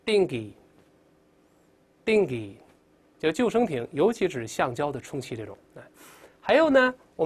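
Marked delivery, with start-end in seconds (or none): 0.1-2.6 dinghy said as ding-ee, the h not sounded; silent h. Shown as a demonstration. Teacher reminding students, dinghy without h. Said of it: "注意H不发音啊".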